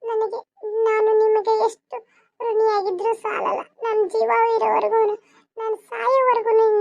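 tearful gratitude. Acted. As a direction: voice catching with tears as she thanks her employer. Grateful maid breaks down crying. (ಅಳುತ್ತಾ ಕೃತಜ್ಞತೆ)

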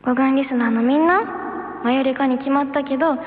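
sweet moe voice; high cute anime girl. Acted. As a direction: coo at the listeners. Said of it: "萌え声姉妹".

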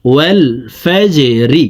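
"ফাজরি" with a pushed echo on "জ"; qalqalah bounce. Shown as a demonstration. Teacher demonstrating qalqalah, "জ" in "ফাজরি" pushed with a bounce. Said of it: "ধাক্কা দিয়ে উচ্চারণ করতে হবে".

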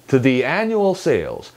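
"to the" light and smooth, weight on "annual"; slow phrase with unstressed "to the"; relaxed TO THE. Shown as a demonstration. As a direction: glide through "to the" into "annual sales". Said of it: "to the를 매끄럽게 힘을 빼고".

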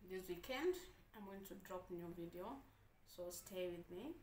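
talking through a mouthful; speaking while chewing food; mouth full. Real, not acted. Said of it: "talking with food in my mouth".

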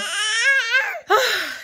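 high, loud laughing exhale; laughing sigh. Real, not acted. Laughing sigh during intro.

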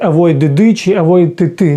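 "avoid" with a tacked-on "ди", then "ти"; wrong endings. Shown as a demonstration. Teacher showing awkward wrong readings, "avoid" plus "ди" or "ти". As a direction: add a bare d or t syllable after "avoid". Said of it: "ми ж не будемо читати".

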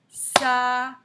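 Saladier in three loud, separate beats; syllable by syllable. Shown as a demonstration. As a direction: tap out SA, LA, DIER with gaps. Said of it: "Trois syllabes".

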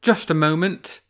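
high, loud mock-friendly fox; sly fox. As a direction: play the fox, teasing the bear.

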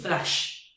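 'flash' with a wide English 'a' as in cat; doğru telaffuz. Shown as a demonstration. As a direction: slowly model 'flash' with an open front vowel. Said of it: "onun okunması, doğru okunması". ('flash' kelimesi e ile a arası sesle)

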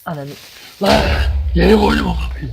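sudden high, loud scream of fright; panicked scream. Real, not acted. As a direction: shriek as a mob jumps you. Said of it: "Nasıl anırdıysam öyle boğazım ağrıdı". (korkuyla bağıran çığlık)

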